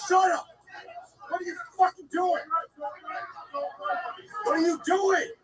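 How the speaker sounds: real tearful demand; upset cry. Real, not acted. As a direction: ask it with the voice close to crying. Confronting attacker, upset.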